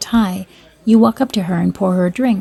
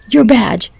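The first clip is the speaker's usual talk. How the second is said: yelling; 7 semitones higher than usual. A narrator's reading. Farmer shouting across the field to the fleeing officer, a high mock yell. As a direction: call out as if to someone running from a bull. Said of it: "yelled at the top of my lungs".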